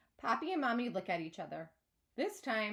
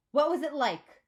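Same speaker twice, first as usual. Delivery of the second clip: loud, eager demand; 5 semitones higher, 9 dB louder than usual. A narrator's reading. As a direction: insist on hearing it now. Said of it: "Maddie demands".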